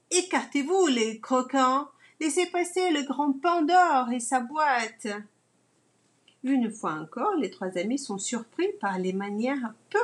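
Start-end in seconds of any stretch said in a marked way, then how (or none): 0.1-5.1 haughty command. Acted. Rude townsman clearing the way.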